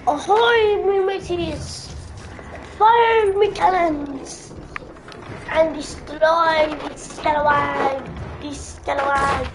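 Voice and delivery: gruff pirate captain. Acted. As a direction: bark orders like a pirate. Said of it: "I love doing the pirate voice".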